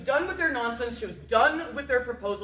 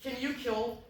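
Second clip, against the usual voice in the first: soft, understated deadly favor; polite murder request; 2 semitones lower, 10 dB quieter than usual. Retold or imitated. Olga asks her entourage once everyone passed out, softly polite. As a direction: ask very quietly, as if a small favor.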